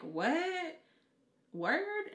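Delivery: high, loud disbelieving what; imitating a stunned friend; mock shock. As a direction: squeal the surprise.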